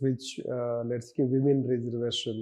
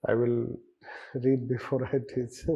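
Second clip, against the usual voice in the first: light laugh breaking into the words; amused chuckle. Real, not acted. Teacher admitting to students they haven't read it, amused chuckle. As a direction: chuckle through the promise. Chuckles at own admission of not reading.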